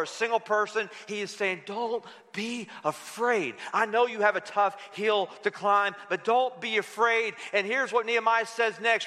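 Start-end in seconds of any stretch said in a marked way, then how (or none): 1.7-7.4 calm them, gently and slowly; reassuring. Acted. God comforting the listener.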